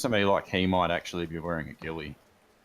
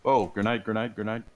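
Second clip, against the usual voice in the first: grenade warning yell; 4 semitones higher, 6 dB louder than usual. Real, not acted. Grenade lands near the team.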